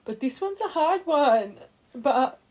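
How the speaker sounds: getting worked up over something hard; emotional. Real, not acted. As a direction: let the emotion surge up into the voice. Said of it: "emotional I'll get".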